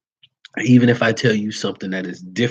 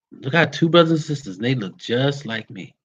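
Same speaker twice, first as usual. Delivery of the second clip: higher, emphatic retelling of her protest; a hint of an indignant young lady; client insisting again; 3 semitones higher than usual. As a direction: push it as she doubles down. Client repeats her claim harder.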